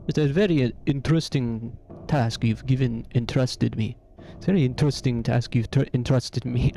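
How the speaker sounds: playful mock Russian accent; lightly put-on Russian, savouring the odd vowels. Joking about the entrusted task, mock Russian accent. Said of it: "maybe Russian".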